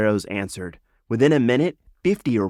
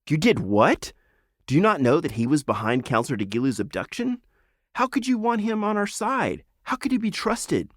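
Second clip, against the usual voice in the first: put-on higher, indignant young lizard; outraged lizard; 8 semitones higher than usual. Lizard challenges the frog, higher and indignant. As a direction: demand how he could trust the traitor.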